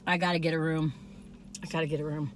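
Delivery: soft, low murmur of delight; quiet. Real, not acted. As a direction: murmur it, swooning. Swooning over the cookie.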